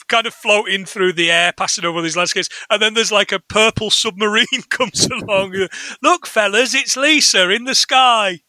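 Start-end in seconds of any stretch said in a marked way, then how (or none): 6.0-8.4 lightly voiced band member spotting someone; cartoon band member calling out. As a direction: call out a mock-amazed sighting. Acting out cartoon band members spotting Lisa.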